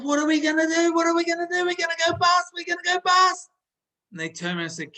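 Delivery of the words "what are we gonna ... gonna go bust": very high, louder panic; an old man in full hammed-up panic; panicking grandfather. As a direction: wail it like the business is doomed. Grandfather panics about going bust.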